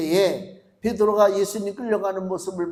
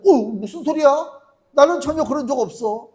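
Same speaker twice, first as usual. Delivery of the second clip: higher, flustered denial; startled denial; 6 semitones higher, 5 dB louder than usual. Acted. Peter startled and denying to the servant girl. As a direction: deny it in a panic.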